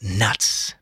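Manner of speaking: breathy whispered "nuts". Acted. Reading Scrooge aloud to friends, whispering "nuts". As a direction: whisper the word "nuts" as a quoted aside.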